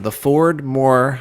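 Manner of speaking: slow dictation to oneself; writing it down. Pretend. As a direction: draw out each word as if writing it. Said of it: "I have to write that down".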